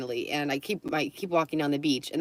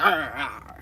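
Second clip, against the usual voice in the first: mock dog growl; 2 semitones lower than usual. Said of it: "he was fake fighting".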